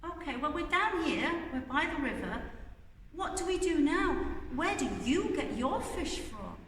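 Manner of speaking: put-on high keen child voice; children's voice. A narrator's reading. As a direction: ask it like excited children. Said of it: "looked at the lady ... and said".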